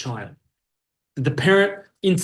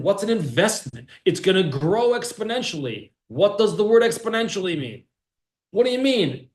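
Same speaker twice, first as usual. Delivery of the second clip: put-on baffled child; 5 semitones higher than usual.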